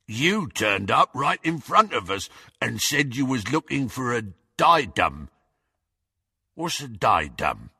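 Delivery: dim, grinning lout's voice; gormless henchman. A narrator's reading. Goyle puzzles over the diadem, gormless. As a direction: say it with a gormless grin. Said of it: "his face split into a gormless grin".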